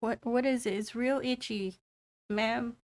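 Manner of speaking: a hint of an uneasy, polite kid; worried young boy. Game master voices boy asking healer.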